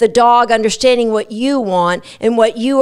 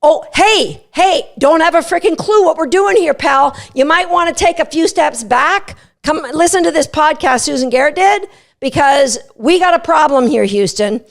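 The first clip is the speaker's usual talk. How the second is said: cheeky dog; 3 semitones higher than usual. Retold or imitated. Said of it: "The dog is jumping on you going".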